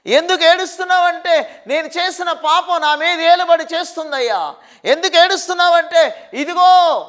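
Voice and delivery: loud, pleading preacher's questions and answers; preacher crying out the people's troubles; impassioned preaching. Acted. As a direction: voice the troubled person's cry with urgency. Preacher voices the sufferers' cries.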